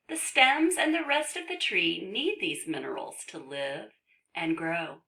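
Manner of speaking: measured, careful storybook narration; reading to children. Acted. Reads book to children.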